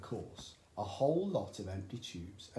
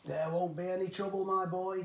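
high, loud, dismissive cry; excited cry; 8 semitones higher, 5 dB louder than usual. A narrator's reading. Father brushing off his son's worry, high and loud. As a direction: wave away the worry. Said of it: "cried Mister Cranky".

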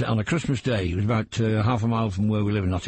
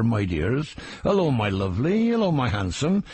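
put-on West Country accent. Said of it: "further down south it are".

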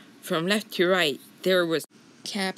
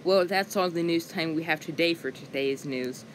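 lightly voiced news anchor; news lady voice. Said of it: "I'm Missus News Lady".

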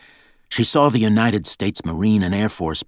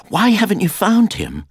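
much higher, louder challenge; outraged demand; 6 dB louder than usual. A narrator's reading. Girl confronting guards over missing Jack, outraged. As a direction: burst out in a high, loud, accusing question.

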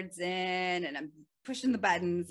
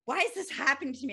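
frustrated; 7 semitones higher, much faster than usual. Retold or imitated. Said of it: "I was frustrated and I was angry".

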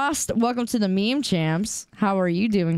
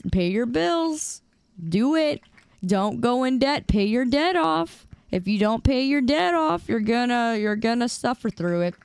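urgent plea; 3 semitones higher than usual. Pretend. Mock-pleading warning about debt.

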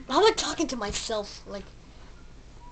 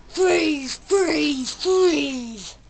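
repeated freeze; 3 semitones higher, 6 dB louder, much slower than usual. Retold or imitated. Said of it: "I'm like".

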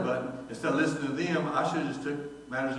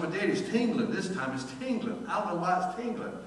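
daughter complaining; 4 semitones higher, 3 dB quieter than usual. Retold or imitated. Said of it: "She said".

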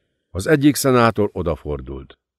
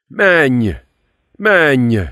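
higher, pressing yells; urgent shout; 5 semitones higher, 4 dB louder than usual. A narrator's reading. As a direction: drive him on with the shout. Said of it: "kiáltotta Klippel". (sürgető kiáltás)

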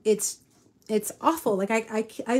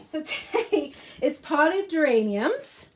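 slow, teary half-laugh; trying to laugh through tears; 4 semitones higher, slower than usual. Real, not acted. Viewers, teary laugh while restarting the lesson. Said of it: "I'm taking a breath".

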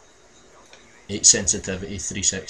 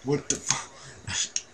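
stunned disbelief; 6 semitones higher, 4 dB quieter, much slower than usual. Real, not acted. Shocked after death.

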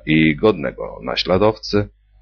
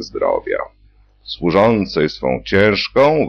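patient orates thanks to health service; speech-making; 2 semitones higher than usual. A narrator's reading. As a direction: drag it out like a rally speech. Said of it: "tonację swoich rozlicznych przemówień".

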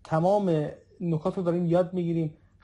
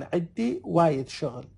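slow teaching demo; slower than usual. Shown as a demonstration.

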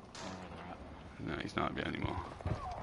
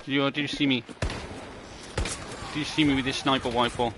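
higher gleeful gloat; 5 semitones higher than usual. Real, not acted. Gamer gloating to the enemy he just sniped, higher and gleeful. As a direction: rub the kill in their face.

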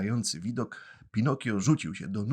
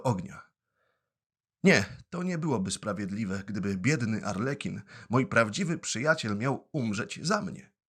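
put-on a touch of a heroic, raised boy's voice; 3 semitones higher than usual. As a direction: offer himself up bravely. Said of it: "podniesionym głosem i tonem heroicznym".

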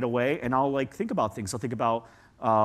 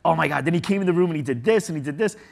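fast, louder, higher rush of excitement; excited retelling; 3 semitones higher, 5 dB louder, faster than usual. Retold or imitated. Telling his family about his son, rushing excitedly. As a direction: gush it out like telling family a wild story. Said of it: "I'm like".

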